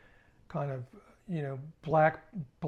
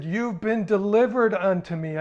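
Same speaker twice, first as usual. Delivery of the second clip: ominous; 6 semitones higher, 9 dB louder than usual. Retold or imitated. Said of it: "I just said".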